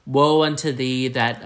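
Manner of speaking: put-on a touch of old-timey pronouncement; old-timey proclamation. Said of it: "it's like an old-timey thing".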